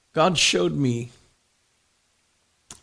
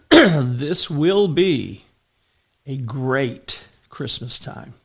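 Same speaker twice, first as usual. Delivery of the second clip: slow, deliberate proclamation; prophetic decree; 4 dB louder, much slower than usual. Real, not acted. Pastor decreeing a great Christmas over his congregation, slow prophetic decree. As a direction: declare it slowly, word by word. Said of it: "That is a prophetic decree".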